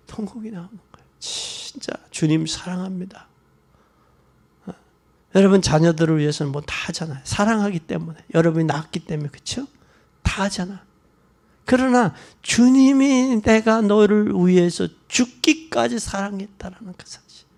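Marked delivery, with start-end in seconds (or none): 0.1-3.3 fast, breathy whispered repeat. Real, not acted. Preacher whispers to the congregation about wailing, fast. 11.6-16.0 slow emphasis. Real, not acted. Preacher slows to stress.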